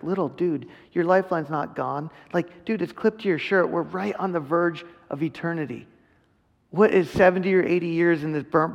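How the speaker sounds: lightly voiced loving father, not scolding; God reassuring his child that his lifeline is not gone; gentle reassurance. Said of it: "I just picture him just like me with Justice".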